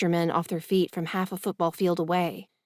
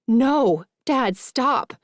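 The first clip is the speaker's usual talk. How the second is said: loud, high desperate cry; girl shouting at her furious dad; 5 semitones higher, 4 dB louder, much slower than usual. A narrator's reading. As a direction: yell to stop her father. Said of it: "I shout".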